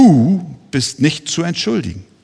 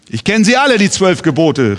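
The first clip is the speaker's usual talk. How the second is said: mildly raised retelling of a shout; mock call; 2 semitones higher than usual. Uncle calls out at the cemetery, mild mock shout. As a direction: call it out like the proud uncle, lightly. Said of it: "rief er mir zu".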